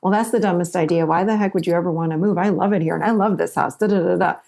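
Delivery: quick, scoffing brush-off; dismissive reaction. Retold or imitated. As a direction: rattle off a put-down of the idea. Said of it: "it doesn't mean I have to sit and say".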